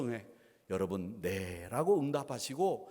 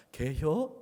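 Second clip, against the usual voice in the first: brief Chungcheong-accented question; short Chungcheong dialect; much slower than usual. Shown as a demonstration. Pastor translates polite question for congregation, terse Chungcheong accent. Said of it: "충청도 사투리로 아주 짧고 간단합니다".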